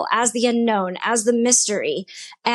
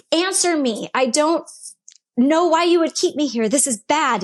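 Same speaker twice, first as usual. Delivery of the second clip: retold frustrated demand, pitched higher; angry demand; 4 semitones higher than usual. Woman retells demanding that God answer her, angry demand. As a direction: replay an exasperated plea for an answer. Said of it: "I am so angry. I'm so mad".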